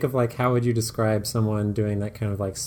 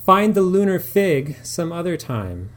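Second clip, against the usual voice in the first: higher, louder brisk correction; Fraser recovering; 7 semitones higher, 5 dB louder than usual. Acted. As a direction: cover the slip briskly. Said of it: "says Fraser".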